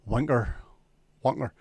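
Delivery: a hint of Jackie's accent on "Wanker"; imitating how Jackie says "Wanker". Teasing a friend by copying his "Wanker". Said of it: "in Jackie's accent".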